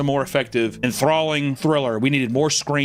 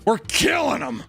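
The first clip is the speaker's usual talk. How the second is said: imitating Peg; 10 semitones higher, slower than usual. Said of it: "how she says to another employee".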